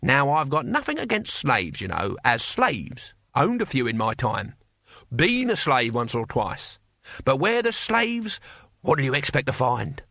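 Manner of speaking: drawn-out, rough-and-ready Cockney figure; casual, slow-stressed character drawl; old barbarian. Acted. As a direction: stretch the key words like a streetwise old campaigner.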